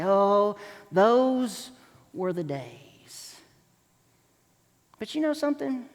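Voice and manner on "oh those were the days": slow, fading nostalgic sigh. Retold or imitated. Person looking back on the past, slow nostalgic sigh. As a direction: let it drift off wistfully. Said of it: "You look back with nostalgia".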